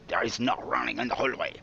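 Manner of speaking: put-on mild French accent, gently stern. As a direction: scold politely in French accent. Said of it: "now you sound a little bit French".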